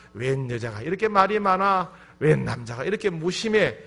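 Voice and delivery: mock spousal grumbling; imitated fed-up spouse; exasperated complaint. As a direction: complain in disbelief, lightly acted. Acted spouses' complaint after marriage.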